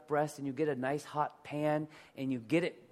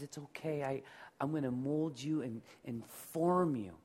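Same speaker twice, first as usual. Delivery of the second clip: put-on a tender father calming a crying child; God reassuring. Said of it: "But God says".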